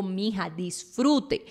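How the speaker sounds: slow, unhurried, affectionate nudge; loving advice. Retold or imitated. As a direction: savor it, telling a friend to enjoy. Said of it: "Yo te digo".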